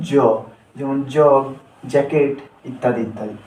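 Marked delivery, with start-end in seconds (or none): 0.1-0.1 জ said alone as J's sound; letter sound demo. Shown as a demonstration. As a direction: sound out জ as a full syllable. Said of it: "জে এর সঠিক উচ্চারণ হলো". (জ আলাদা করে উচ্চারণ)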